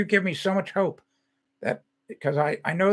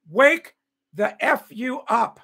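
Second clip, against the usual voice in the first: slow angry command; 2 semitones higher, 4 dB louder, slower than usual. Real, not acted. Ranting at the audience.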